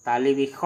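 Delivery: तालिबिख said with a kh sound in place of s; तालिबिख with an Assamese kh; Assamese pronunciation. Shown as a demonstration. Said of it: "असमिया में कहेंगे तालिबिस्स".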